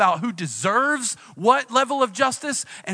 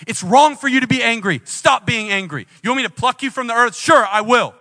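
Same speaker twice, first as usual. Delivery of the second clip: loud, high scolding; booming angry rebuke, pitched up; angry father; 6 semitones higher, 7 dB louder than usual. Acted. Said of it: "like an angry father going".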